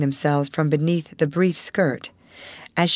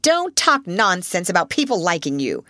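dismissive headmistress. Acted.

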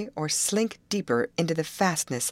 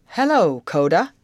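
calling out; 3 semitones higher, 8 dB louder than usual. A narrator's reading. Foreman hailing his old friend, calling out. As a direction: call a greeting across a clearing. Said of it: "called Mister Hammond".

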